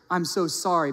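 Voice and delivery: mildly hysterical apology. Retold or imitated. College girl begs officer for forgiveness, mildly hysterical. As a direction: lightly act out a frantic apology. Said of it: "the girl is just hysterical".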